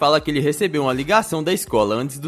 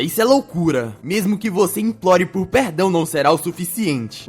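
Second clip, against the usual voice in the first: furious; 4 semitones higher than usual. Acted. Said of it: "faz um olhar furioso e fala".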